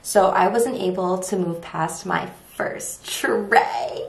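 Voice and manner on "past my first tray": whisper. Real, not acted. Whispered aside.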